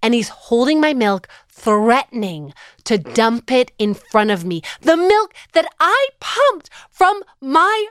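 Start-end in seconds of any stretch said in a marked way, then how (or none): 4.8-7.8 higher, slow, choked-up emphasis; retelling the airport, getting emotional. Real, not acted. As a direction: voice lifting with real emotion. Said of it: "I'm getting, like, emotional talking about it right now".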